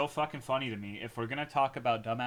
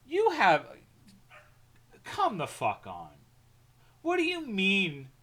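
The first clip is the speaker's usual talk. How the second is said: loud, higher indignant shout; outraged yelling; 8 semitones higher, 5 dB louder than usual. Real, not acted. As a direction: blast your friend's doubt. Outraged at friend's comment.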